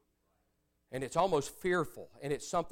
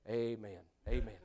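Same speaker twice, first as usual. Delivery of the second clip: quiet amen; 9 semitones lower, 9 dB quieter than usual. Retold or imitated. Father quietly affirming a convert.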